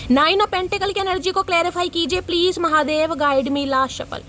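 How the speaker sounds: chant-like appeal to a deity, last words drawn out; prayer invocation. Real, not acted. Invokes Mahadev before shuffling cards.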